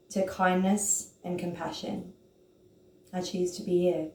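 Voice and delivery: slow, gentle, soothing self-talk; slow soft affirmation. Shown as a demonstration. Reciting her affirmation to herself, slow and soft. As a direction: speak it softly to yourself like a mantra. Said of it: "the affirmation that I say to myself along this method goes like this".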